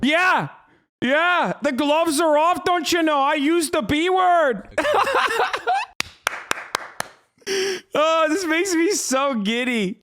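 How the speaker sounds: high, excited mock-threatening rant; pumped-up parody of a hostile patriot; mock tough guy.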